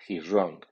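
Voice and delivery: "He's" only moderately stressed before "wrong"; medium stress on HE'S. Shown as a demonstration. Teacher models a pronoun statement, medium stress on "He's". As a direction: give "He's" a medium accent, falling on "wrong". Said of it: "el acento medio del pronombre".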